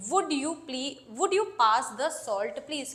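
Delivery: very slow, gentle polite ask; polite loving request. Shown as a demonstration. Teacher modelling a loving polite request, slow. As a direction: ask sweetly, taking your time. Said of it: "तो बड़े प्यार से आप ये बोलते हैं".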